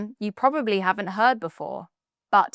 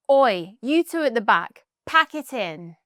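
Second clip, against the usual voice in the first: teacher telling off; 2 semitones higher, 4 dB louder than usual. Acted. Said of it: "from parents, teachers, or anyone who's had enough".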